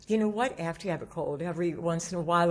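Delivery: usual speaking voice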